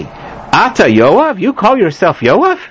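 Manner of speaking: indignant challenge. Shown as a demonstration. Wise woman scolds the general with disbelief. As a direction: sneer "You call yourself Yoav?" as an accusation. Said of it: "but some people say".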